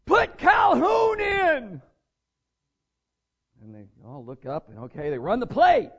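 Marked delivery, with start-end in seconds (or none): 0.0-1.8 loud, high, drawn-out yell from the stands; shouting father. Retold or imitated. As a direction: call it slowly across the stadium. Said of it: "and he said".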